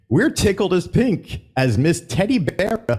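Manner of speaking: lightly hammed emcee read; showman voice. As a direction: stumble through the show-host line. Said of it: "oh, let me try that again".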